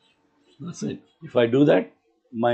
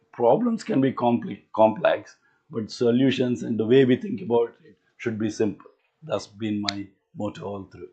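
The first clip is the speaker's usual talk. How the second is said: tired, groggy lecturing voice. Real, not acted. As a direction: speak through a groggy, worn-out throat. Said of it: "I do apologize for my groggy voice".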